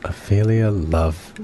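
slow savoring whisper; slow hushed whisper of the name. Acted. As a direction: hush it out slowly. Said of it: "I was gonna make a bad joke".

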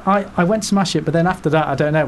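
put-on a lighter take on the French accent; a hint of French on the quote. Repeating the player's quote in a faint French accent. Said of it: "That's me".

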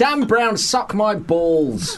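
Alan Partridge. Pretend. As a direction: blurt like a pompous TV host. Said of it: "I went full Partridge there".

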